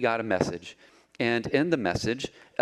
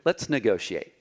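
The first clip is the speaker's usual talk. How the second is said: tempting Satan; 4 semitones lower than usual. Acted. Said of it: "here is what Satan is saying to you today".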